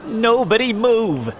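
loud, high police command; urgent officer's shout; shouted order. A narrator's reading. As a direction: freeze the crowd with a yell. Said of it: "shouted the police officer".

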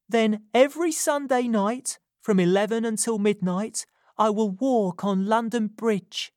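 urgent Nancy. A narrator's reading. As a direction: confess it as if your life depends on it. Nancy arranging meeting.

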